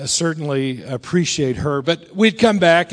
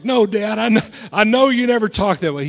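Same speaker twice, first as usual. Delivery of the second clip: higher-pitched, pleading son; mock crying; 5 semitones higher than usual. Twenty-one-year-old answers dad, mildly mock tearful. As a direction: imitate a tearful reassurance. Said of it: "I'm crying".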